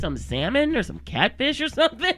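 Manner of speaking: peppy, giggly phone offer; stifle a laugh while selling; laughing through words. Retold or imitated. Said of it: "offering alternatives on phone".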